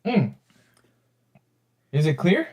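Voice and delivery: muffled, like talking into a can; boxy voice-mod sound through a can; tin can voice. Real, not acted. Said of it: "sounds like you're talking into a, um, a can".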